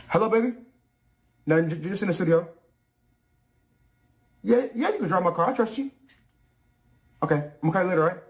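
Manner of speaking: meek phone voice. Acted. Rapper meekly answers wife.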